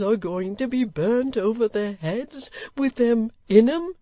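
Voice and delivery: put-on slow, high, exasperated old man; choleric complaint. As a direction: vent his grievance, drawn out.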